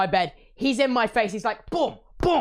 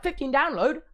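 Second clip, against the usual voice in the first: disbelief; 5 semitones higher than usual. Retold or imitated. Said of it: "I'm like".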